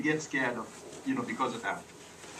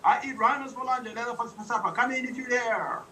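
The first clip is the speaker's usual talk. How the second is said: high, fast playful monster boast; lightly voiced monster threat; booming monster; 8 semitones higher, faster than usual. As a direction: boom it out like a cartoon monster. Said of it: "the big booming voice came out".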